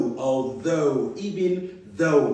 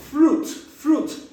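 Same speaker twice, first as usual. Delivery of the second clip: high drill; 8 semitones higher than usual. Shown as a demonstration. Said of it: "U I as in ooh".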